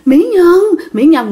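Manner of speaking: a lightly voiced ghost calling "Mỹ Nhân"; creepy ghost voice. Ghost whispering "Mỹ Nhân" to the woman it holds, lightly eerie. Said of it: "mà kêu mẹ là Mỹ Nhân á".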